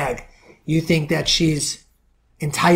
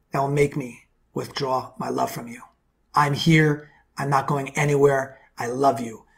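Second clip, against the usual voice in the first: tender reassurance; 2 semitones lower than usual. Shown as a demonstration. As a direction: reassure her gently that you're not leaving. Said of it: "I'm saying to say this in your energy".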